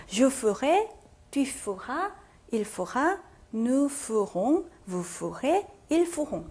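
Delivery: "ferai", "feras", "ferons" with the e after f barely sounded; silent e. Shown as a demonstration. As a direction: drop the e in "ferai" and its other forms. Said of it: "요 발음은 안 나겠죠". ("ferai"의 e 발음을 빼고)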